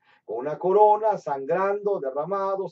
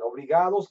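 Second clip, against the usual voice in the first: obligados said louder, falling; stress on obligados; 3 semitones higher, 6 dB louder than usual. Real, not acted. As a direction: lean hard on obligados.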